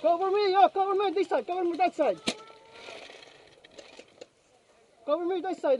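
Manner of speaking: loud urgent call for cover; cover me shout. Real, not acted. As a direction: shout it to the team over gunfire. Calling for cover in firefight.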